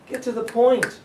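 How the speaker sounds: high, punchy repeat; emphatic. Real, not acted. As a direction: hit it hard again.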